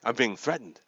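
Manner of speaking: a hammed-up little fright; mock alarm.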